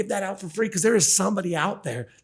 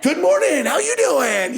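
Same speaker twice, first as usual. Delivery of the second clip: much higher, louder bright hello to a neighbour; cheerful greeting; 12 semitones higher, 5 dB louder, slower than usual. Retold or imitated. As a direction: greet the neighbour like it made your morning.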